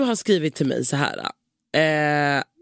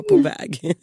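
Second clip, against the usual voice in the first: high mock reply; 10 semitones higher than usual. Mimicking friend's text reply.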